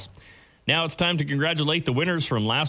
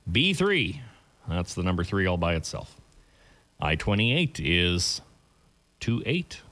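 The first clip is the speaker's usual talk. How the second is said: bingo caller. Real, not acted. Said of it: "I'm your bingo caller for this morning's games".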